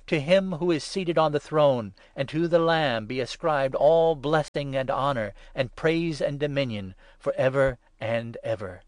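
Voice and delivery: loud, exultant praise; loud cry. A narrator's reading. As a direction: call it out to the whole creation.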